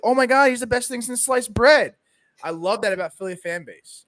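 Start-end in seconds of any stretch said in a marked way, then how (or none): 0.0-1.9 higher-pitched mock fan gushing. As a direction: imitate fans suddenly raving. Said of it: "they're all like".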